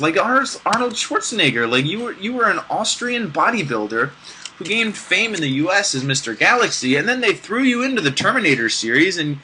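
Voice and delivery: mock praise for Arnold; deadpan sarcasm, praising what you mock; sarcastic. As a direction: fake admiration, tongue in cheek. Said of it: "That, of course, was sarcastic".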